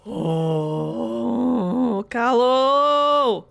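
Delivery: loud hail of a name; calling out. Real, not acted. Streamer calling out the crewmate's name. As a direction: call across the room.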